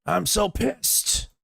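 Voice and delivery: very high, drawn-out mock whine; stretched falsetto mockery of a tantrum; mocking imitation. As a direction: mimic an angry ranter in squeaky slow falsetto. Mimicking the ranting clip just played.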